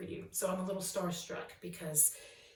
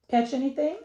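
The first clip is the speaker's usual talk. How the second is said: higher, louder motherly question; mom asking; 7 semitones higher, 10 dB louder than usual. Acted. Sally's mom greets her home, higher and louder. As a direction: ask like a curious mom. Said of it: "her mom asked".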